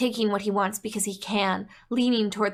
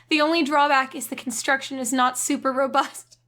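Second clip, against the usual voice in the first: usual speaking voice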